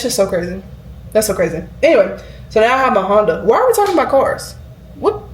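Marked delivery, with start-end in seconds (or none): 3.4-5.2 self-surprised aside. Real, not acted. Catches herself going off topic.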